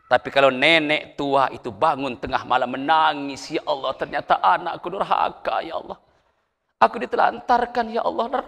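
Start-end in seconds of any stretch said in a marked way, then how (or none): 3.6-8.4 soft, tearful mock lament of a neglected mother; a hint of an old mother weeping at night; crying old mother. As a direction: let the voice sink into a weepy prayer.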